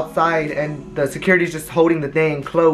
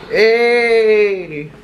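calling out; 6 semitones higher, 4 dB louder than usual. Real, not acted. Calling out to someone off camera.

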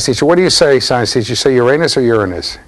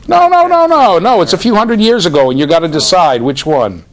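emphatic protest; 8 semitones higher, 4 dB louder than usual. Real, not acted. Pushing a student to answer.

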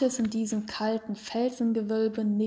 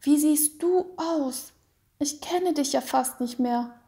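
put-on tearful child; 4 semitones higher than usual. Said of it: "mit Tränen in den Augen".

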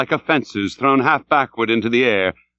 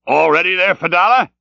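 raised, urgent captain's call; crying out; 6 semitones higher, 4 dB louder than usual. A narrator's reading. Ahab calls to Fedallah at the boat, crying out. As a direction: call out higher, pitch climbing to the end. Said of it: "Ahab cried out".

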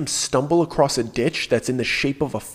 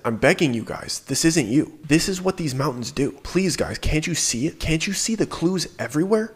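pleading; 4 semitones higher than usual. Retold or imitated. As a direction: beg them, close to tears. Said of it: "he starts pleading".

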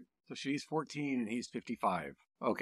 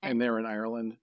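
usual speaking voice

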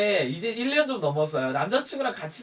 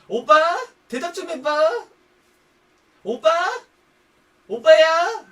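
high, loud, insistent calls; nagging partner; 8 semitones higher, 9 dB louder, slower than usual. Acted. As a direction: keep calling out to someone ignoring you. Calling an unresponsive boyfriend.

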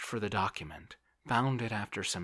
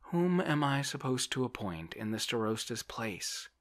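higher, louder helpless question; raised, fretful character voice; plaintive landowner; 7 semitones higher, 5 dB louder than usual. A narrator's reading. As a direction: play a man at a loss. Voices Oblomov asking.

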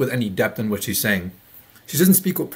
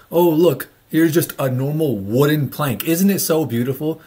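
mock admiration; 2 semitones higher than usual. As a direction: feign wonder at something dull. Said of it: "it shouldn't be like".

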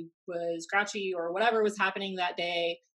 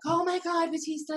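fangirl squeal; 10 semitones higher than usual. Retold or imitated. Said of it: "a fangirl".

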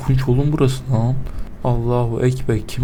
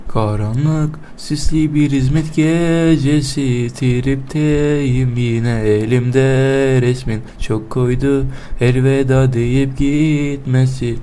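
slow dramatic recitation; very slow mock melancholy; mock sad poem; much slower than usual. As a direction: read it like a gloomy poem. Melancholic poetic monologue over music.

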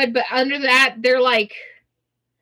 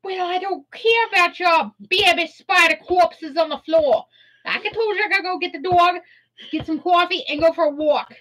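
higher, sassy dismissive voice; sassy attitude; 4 semitones higher than usual. Acted. Refusing to deal with the corpses, sassy. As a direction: wave it all off with attitude. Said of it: "we have to get that attitude with that accent".

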